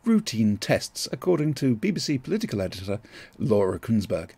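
steady newsreader bulletin read; breaking news voice. Pretend. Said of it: "my breaking news voice".

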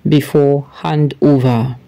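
steady news-bulletin reading voice. Acted. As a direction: read it like a newscaster presenting the story. Reads a news article aloud.

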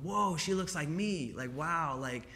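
a hint of a wowed kid; imitating amazed little girls. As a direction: lightly voice a child's awed reaction. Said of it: "little black girls, right, all around the world going".

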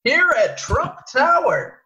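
put-on slow, drawn-out old newsreel anchor; 1940s newsreader. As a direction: stretch each word like a 1940s anchor. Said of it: "Just nasally and over, overemphasize everything".

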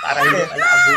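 words squeezed out high through laughter; laughing through words. Real, not acted. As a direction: still laughing as you say it. Laughing after punchline. (tumatawa habang nagsasalita)

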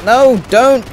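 high, slow mock plea; drawn-out whiny begging; mock pleading.

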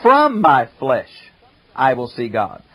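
"From" held out and pressed before "my flesh"; stress on from. Shown as a demonstration. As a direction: land hard on "From" as the rival reading. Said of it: "Some translations have".

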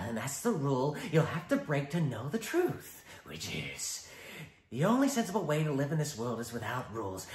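taunting, lively Joker. Acted. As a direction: goad him. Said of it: "the Joker".

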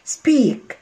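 "سبيك" begun straight on the s; no leading vowel. Shown as a demonstration. Teacher repeating the corrected word, "سبيك" starting cleanly on the s. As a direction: say "سبيك" with s and p joined, no i before them. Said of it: "لا، سبيك".

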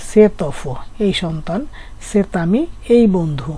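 slow, linking "সেত" into "অফো" and "আমি" with a sounded t; liaison demo. Shown as a demonstration. Teacher showing students the liaison, slow linked t. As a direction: say "সেত অফো" and "সেত আমি" slowly, t carried into the vowel. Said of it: "লিয়াজু করে".

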